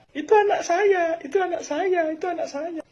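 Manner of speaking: bragging parent. Retold or imitated. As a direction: crow it like a show-off parent. Parents bragging about winning child.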